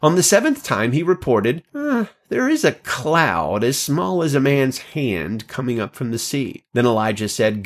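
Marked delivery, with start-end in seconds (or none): 1.8-6.6 servant's voice. Acted. Servant reports a cloud.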